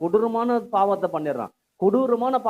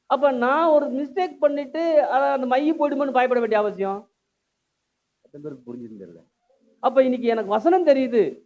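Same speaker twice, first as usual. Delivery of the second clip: raised, higher sermon voice; forceful preaching; 6 semitones higher, 3 dB louder than usual. Real, not acted. Preacher challenging listeners about knowing scripture, forceful. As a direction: drive the point home to the congregation.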